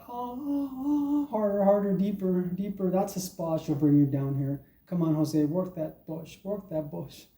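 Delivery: mock the moaning lover in a high voice; hammed-up high moaning partner; moaning white woman. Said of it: "And it's like".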